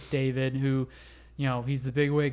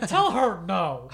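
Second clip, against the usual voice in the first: laughing; 4 semitones higher, slower than usual. Real, not acted. Joking about the giddy girl.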